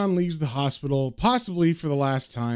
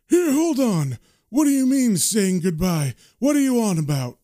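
higher-pitched, mildly startled protest; Matt challenging; 5 semitones higher than usual. Acted. Matt questions John's goodbye, high and lightly indignant. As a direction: cut in, puzzled, in a raised voice. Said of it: "Matt picks up on that and he says".

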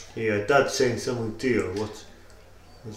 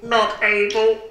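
high, slow, stilted voice; deadpan high character voice; odd musician character; 10 semitones higher, slower than usual. Acted. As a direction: drag it out in a high put-on voice. Odd musician character refuses request.

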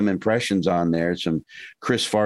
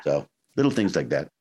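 lower, slower menacing voice; bad guy voice; 5 semitones lower than usual. Shown as a demonstration. Actor demonstrating his low, slow bad-guy voice. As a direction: drop into the villain voice, low and slow. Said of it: "a little deeper and a little slower".

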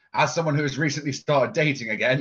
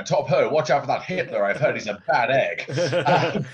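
put-on posh British accent; 6 dB louder than usual. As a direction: play an old-fashioned English toff. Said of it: "We can go extra British on this one".

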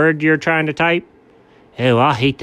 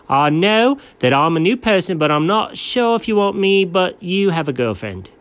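reading out a text; 3 semitones higher than usual. Shown as a demonstration. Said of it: "Here it is".

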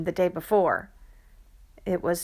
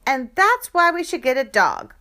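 eager pitch; 7 semitones higher, 6 dB louder than usual. Acted. Kid pitching for a dog.

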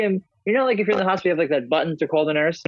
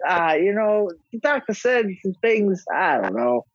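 vague dad voice; 4 semitones higher, slower than usual. Retold or imitated. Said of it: "dad voiced in story".

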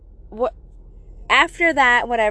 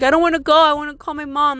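higher, louder mock-upset protest; retold tearful panic; 4 semitones higher, 4 dB louder, faster than usual. Child wants mom, retold mild tearful panic. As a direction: act out a mildly panicked plea without real tears. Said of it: "I remember I started crying".

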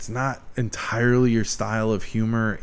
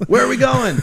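high, loud goofy hick voice; Ernest impression; 12 semitones higher, 6 dB louder than usual. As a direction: bellow it like dopey Ernest.

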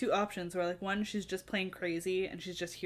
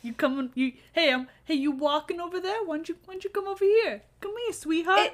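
higher, faster sleazy come-on; hammed-up creepy guy coaxing a girl over; creepy catcaller voice; 8 semitones higher, 4 dB louder than usual. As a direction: call her over like a lightly voiced street creep. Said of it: "a man calls out to her".

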